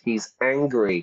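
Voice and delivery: whispered aside. Real, not acted. Teacher whispering to students about the angry detective. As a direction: hush it to the listeners.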